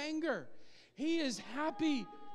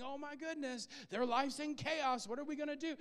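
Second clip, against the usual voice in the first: mock panic; 4 dB quieter than usual. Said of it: "He's not scratching his head thinking".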